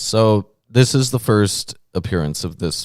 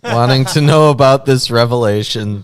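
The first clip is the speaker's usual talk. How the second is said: put-on young lady voice; 3 semitones higher, 5 dB louder than usual. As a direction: read it in a mildly hammed-up young lady voice. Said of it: "I have to do a young lady voice".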